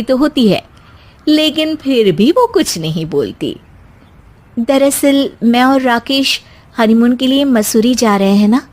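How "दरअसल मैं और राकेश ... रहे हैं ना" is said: lightly voiced young bride, polite and calm; a hint of a sweet daughter-in-law explaining to her mother-in-law; young wife Simmi. (हल्की सी आवाज़ में शांत बहू)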